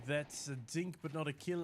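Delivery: accidental slip into a South African accent. Real, not acted. Caster calling a dink, slipping into a South African accent. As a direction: let the vowels drift South African for a moment. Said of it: "my accent went South African".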